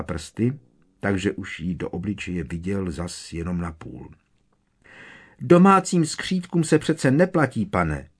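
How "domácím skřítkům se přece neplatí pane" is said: very high, mildly hushed squeak; quiet squeak. A narrator's reading. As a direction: squeak it out, scandalised. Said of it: "vypískla potichu".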